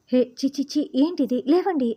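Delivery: disgusted cries building to a high, loud shout; shocked wife shouting at the kissing pair. A narrator's reading. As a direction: yell at them to get up. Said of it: "అరుస్తూ లేపుతూ".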